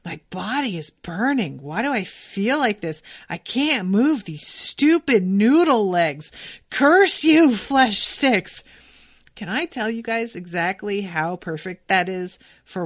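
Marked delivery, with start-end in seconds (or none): 0.1-8.6 building from tired moaning to a loud curse; hammed-up exhausted villain, cursing his body; mock exhausted rant. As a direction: fake weary grumble ending in a yell. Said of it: "sweating and panting".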